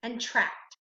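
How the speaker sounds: "con", pause, "and tract"; separated syllables. Shown as a demonstration. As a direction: set "con" apart from "tract". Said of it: "the two syllables you should have".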